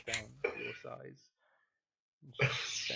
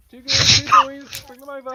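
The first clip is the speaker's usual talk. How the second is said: high, loud call to staff; 25 dB louder than usual. Acted. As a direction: summon them with a clap. Madam claps, calls for staff.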